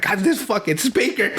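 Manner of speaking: slow, high-pitched struggling imitation; mock exasperation. Imitating an actor struggling with the speaker, slow mock exasperation. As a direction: act out fumbling frustration, drawn out and high. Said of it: "is struggling with the speaker".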